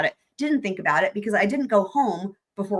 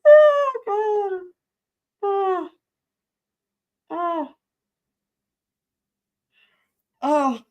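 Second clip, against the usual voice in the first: high wheezing laughter trailing off; laughing fit; 11 semitones higher, 4 dB louder, much slower than usual. Real, not acted. After mom's knife wielder joke, helpless laughter. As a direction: laugh it out and wind down slowly.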